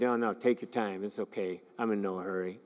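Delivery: imitating someone pretending they have all the time; fake patience. Teacher mimics an impatient person telling you take your time, mock patience. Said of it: "everything about them says they're aggravated".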